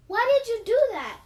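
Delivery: high, loud distressed outburst; upset cry. A narrator's reading. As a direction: cry it out in dismay. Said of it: "cried Lily".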